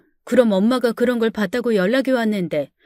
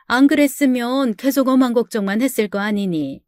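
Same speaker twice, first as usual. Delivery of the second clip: relieved mother. Retold or imitated. Relieved mother voiced by narrator.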